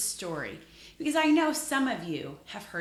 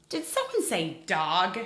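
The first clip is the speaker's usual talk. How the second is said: surprised; 6 dB louder than usual. Pretend. Pretends to hear a guess.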